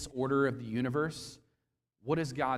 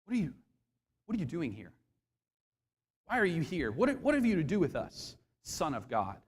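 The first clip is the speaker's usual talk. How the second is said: terrified; 2 semitones higher than usual. Shown as a demonstration. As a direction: stammer it out in fear. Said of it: "I think they're terrified".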